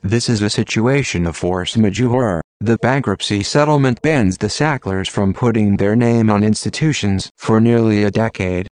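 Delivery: robotic text-to-speech voice. Real, not acted. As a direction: read it like a computer voice. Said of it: "using a computer-generated voice".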